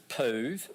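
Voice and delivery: poov with a long OO; rhymes with move. Shown as a demonstration. Speaker offers teachers another reading, poov rhyming with move.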